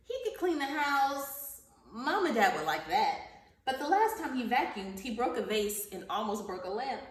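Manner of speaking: animated picture-book narration; reading to children. Acted. Teacher reading Pete the Cat to her class, storybook narration. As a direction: read the story aloud to young pupils, lively at the start.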